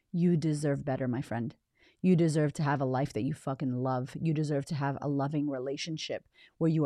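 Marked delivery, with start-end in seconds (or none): 0.1-1.5 softer, tender repeat; sincere repeat. Real, not acted. Coach reassuring a listener, softly repeating it. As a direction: say it again gently, falling away. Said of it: "And I want to say to you".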